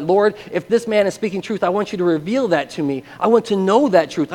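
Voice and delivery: urgent retold prayer; earnest plea. New believer asks the Lord for truth, earnest pleading.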